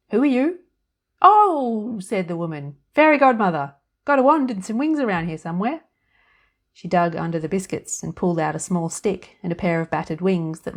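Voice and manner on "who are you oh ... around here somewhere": put-on high, loud, chirpy little old woman; fairy godmother voice. A narrator's reading. Tiny woman in the biscuit tin greeting Annie, high and chirpy. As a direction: pipe up brightly from inside the tin.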